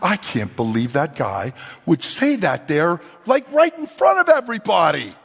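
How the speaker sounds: disbelief building to outrage; a hammed-up indignant inner voice; mock outrage.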